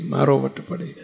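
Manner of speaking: મારો lifted into a proud rise; proud rising tone. Shown as a demonstration. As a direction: say it as a boast.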